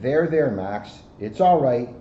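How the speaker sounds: slow, gentle comfort; calm the crying child; reassuring officer to a lost child; soothing. Acted. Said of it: "calmed Max down".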